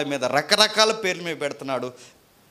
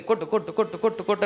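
urging hit; 6 semitones higher, faster than usual. Retold or imitated. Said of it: "వెళ్ళి ... అని కొడితే".

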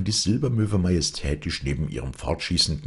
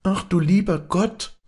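very high, loud exclamation; crying out; 5 dB louder than usual. A narrator's reading. Girl seeing flooded meadows, crying out high. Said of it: "rief Maren".

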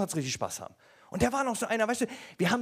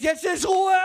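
loud, higher victory cry; triumphant shout; 9 semitones higher, 6 dB louder, slower than usual. Retold or imitated. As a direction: announce it triumphantly.

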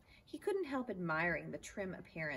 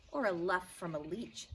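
a touch louder, mock bellow; mild bellow; 2 semitones higher, 4 dB louder than usual. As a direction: bellow it back in the game. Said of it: "bellowed the man".

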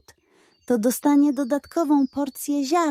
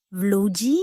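squeak; 2 semitones lower than usual. A narrator's reading. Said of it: "zapiszczała przerażona".

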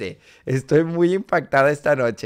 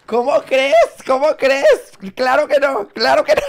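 mock flirty refusal; 8 semitones higher, 5 dB louder than usual. Responde coqueta a asaltantes guapos.

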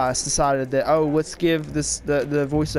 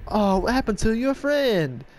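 Family Guy quote; 8 semitones higher than usual. Retold or imitated. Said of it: "That's freaking Family Guy".

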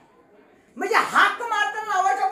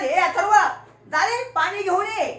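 louder call across the classroom; 3 semitones higher, 5 dB louder than usual. Shown as a demonstration. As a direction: call the boy by name. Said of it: "हाक मार". (हाक मारल्यासारखे मोठ्याने)

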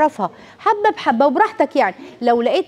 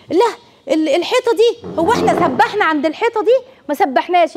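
put-on excited child; 5 semitones higher than usual. Child recalling a family memory.

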